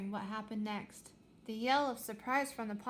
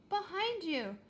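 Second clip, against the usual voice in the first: urgent warning; 8 semitones higher, slower than usual. A narrator's reading. Sudden warning.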